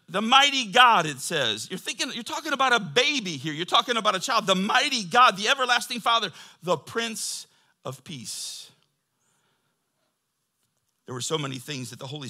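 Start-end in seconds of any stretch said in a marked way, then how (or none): 0.1-1.1 exclaimed with laugh. Real, not acted. Proclaiming the names of God. 1.7-4.5 excited amazement. Real, not acted. Marveling that it's a baby. 4.5-8.7 proclaimed loudly. Real, not acted. Proclaiming titles of Christ.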